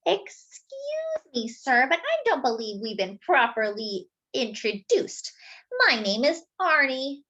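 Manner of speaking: butter him up sweetly; sweetest voice. Acted. Arnie the donut sweet-talking Mister Bing, sugary and slow. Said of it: "in his sweetest voice".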